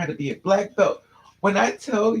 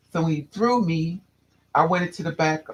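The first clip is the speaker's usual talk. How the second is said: ordinary talk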